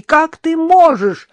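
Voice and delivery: appalled cry, stress on можешь; horrified outcry. A narrator's reading. Innokenty cries out at his dog in horror. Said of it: "в ужасе закричал Иннокентий".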